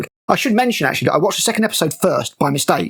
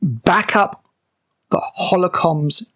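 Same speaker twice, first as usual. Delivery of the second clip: quoting the captain; slower than usual. Retold or imitated. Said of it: "What she says is".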